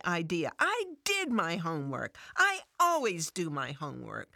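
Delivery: prove she did her homework; frustrated sarcasm. Acted. Fran snaps back at Jesus, indignant and defensive. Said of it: "frustrated sarcasm".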